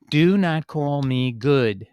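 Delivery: slow, weighty stress on "Do not call me good"; emphatic statement. Shown as a demonstration. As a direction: say "Do not call me good" slowly and firmly, word by word. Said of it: "reading it in its emphatic form".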